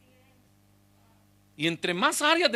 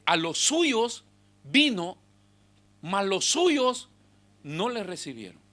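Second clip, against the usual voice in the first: slow scripture reading; slower than usual. Shown as a demonstration. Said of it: "Por eso es que Juan escribe y dice".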